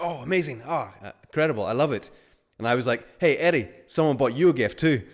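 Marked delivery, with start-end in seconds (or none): 0.0-2.1 mock delight. Fake delight at gift news. 3.2-5.0 louder, higher sing-song tease; teasing announcement. Acted. Teasing Eddie with the joke.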